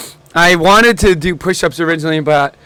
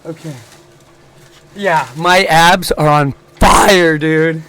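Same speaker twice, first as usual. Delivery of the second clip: doing a plank; slower than usual. Real, not acted. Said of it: "The breathing in the mic is not it".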